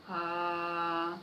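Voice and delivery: steady mid-range "ah"; middle tone. Shown as a demonstration. Teacher demonstrates a medium sound for children, held middle note. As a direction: sustain an "ah" in the middle register. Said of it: "fazer um som médio".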